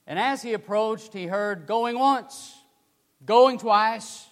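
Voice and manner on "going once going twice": auctioneer call. Retold or imitated. Auctioneer calling bids.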